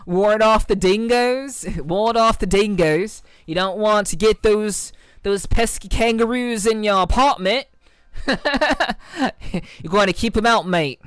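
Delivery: hammed-up Australian accent, laughing through it, slowed; lightly put-on Aussie bloke, half-laughing; bad Aussie accent. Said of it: "my terrible Aussie accent".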